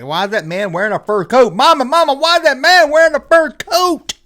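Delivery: put-on high whiny child asking Mama; like a little kid tugging at mom. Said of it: "I was like".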